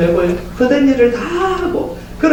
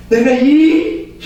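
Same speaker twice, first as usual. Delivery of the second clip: slow, louder, about to swear; cut-off curse; 4 dB louder, much slower than usual. Retold or imitated. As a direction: start an angry oath then stop. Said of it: "그다음 말 안 합니다".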